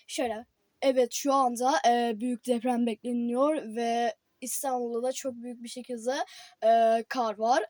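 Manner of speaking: reading headlines like an anchor; newscaster voice. Pretend. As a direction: pretend TV news read. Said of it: "böyle güzel okumam lazımdı". (haber spikeri gibi)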